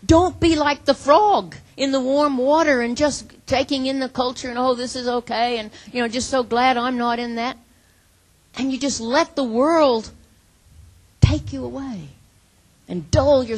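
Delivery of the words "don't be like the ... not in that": prophet's warning. Acted. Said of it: "and, and saying".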